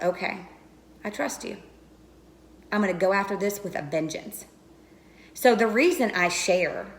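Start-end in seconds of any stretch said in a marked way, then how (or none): 0.0-4.5 much softer, hushed answer; quiet surrender. Retold or imitated. Answering God on her knees, hushed and softer. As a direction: murmur it like a private prayer. Retold reply to God in prayer.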